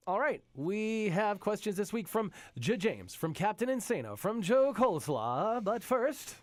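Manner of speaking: slow, high heroic announcer voice; lightly voiced booming hero; superhero voice. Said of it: "going real hard into his, like, superhero voice".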